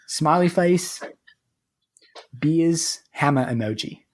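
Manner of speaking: a light mock Australian accent for the rest of the review. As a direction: carries on the put-on Aussie read to the end. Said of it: "Get in character".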